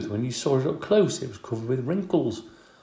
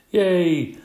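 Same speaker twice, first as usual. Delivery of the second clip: excited yell; 4 semitones higher than usual. Acted. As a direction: shout it out like an overjoyed kid. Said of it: "A J yelled".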